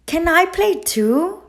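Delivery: high, sweet small voice; little bird asking. A narrator's reading. The blue bird asks the two parents, small and high. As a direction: ask hopefully like a little bird. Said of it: "she asked".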